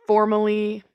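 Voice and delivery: mock-formal public apology. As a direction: apologise like a press statement. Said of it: "publicly and formally ap".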